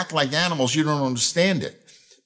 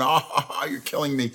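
mock chuckling along at a joke; imitated laughter. Preacher retelling everyone's reaction to a joke, imitated laughing. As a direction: imitate a crowd cracking up, lightly. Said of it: "everybody was laughing at a joke".

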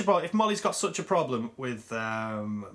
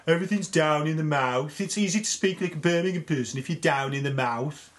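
Birmingham accent. Shown as a demonstration. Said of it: "Like that".

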